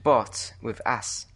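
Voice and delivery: "bot with ass" slowly, part by part; pronunciation breakdown. Shown as a demonstration. Brit teaching friend the name, "bot with ass" said slowly. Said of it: "How do you say it?".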